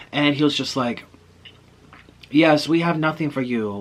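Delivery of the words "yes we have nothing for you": attempted Russian accent, pitched up; badly faked Russian manager. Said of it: "thick Russian accents".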